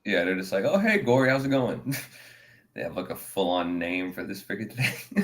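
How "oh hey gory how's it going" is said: higher, cheery hello; mock friendly greeting. Townspeople greeting the gorilla, higher and cheery. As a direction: greet him like an old pal.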